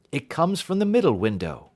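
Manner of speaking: spring up at the signal; excited. Acted. Detective alerting his friend the signal has come, excited and loud.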